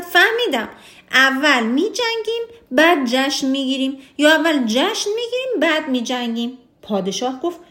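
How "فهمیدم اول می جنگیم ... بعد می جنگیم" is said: William exclaiming. Acted. William cries out his clever plan to the worried king, mock excitement. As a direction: announce the solution like a thrilled adviser. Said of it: "ویلیام ناگهان فریاد زد".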